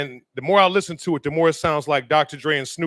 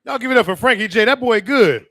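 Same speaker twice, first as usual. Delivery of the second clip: loud, fast, higher call to applaud; hype announcement; 5 semitones higher, 5 dB louder than usual. Real, not acted. Host calls on the crowd to cheer a singer, loudly. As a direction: pump the crowd up for the last act. Host brings next act on.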